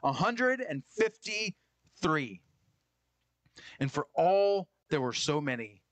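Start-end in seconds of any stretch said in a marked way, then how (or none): 0.0-2.4 slow, drawn-out hundred and fifty-three; stressed number. Shown as a demonstration. Preacher lingering on the fish count, slow. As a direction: lean on every word of the count. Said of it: "full of great fishes".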